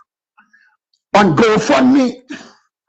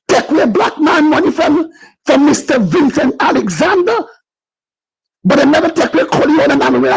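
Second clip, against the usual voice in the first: fired-up preaching, raised pitch; 3 semitones higher than usual. Real, not acted. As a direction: preach it to the crowd. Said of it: "Let me preach".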